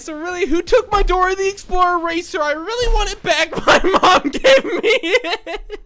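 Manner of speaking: put-on high, loud, half-laughing child whine; lightly voiced whining schoolkid; whiny kid. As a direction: play a kid missing his eraser. Role-plays whiny kid in class.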